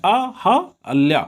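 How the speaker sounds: अहल्या drawn out as अ-ह-अ-ल्या; teacher spelling it aloud for memory; very slow sounding out. Shown as a demonstration. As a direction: stretch अहल्या syllable by syllable. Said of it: "सही करने के लिए अहल्या".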